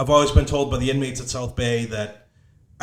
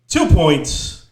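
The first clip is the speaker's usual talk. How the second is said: rapid-fire announcer; 6 dB louder than usual. Shown as a demonstration. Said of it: "that's like rapid fire".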